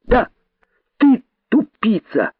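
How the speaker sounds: high, crisp gleeful taunt; ecstatic cry. A narrator's reading. Rabbit delightedly confirming the insult to python, exultant cry. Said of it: "восторженно выкрикнул кролик".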